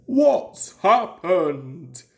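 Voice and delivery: slow, alarmed engine voice. A narrator's reading. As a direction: shaken and worried. Gordon alarmed.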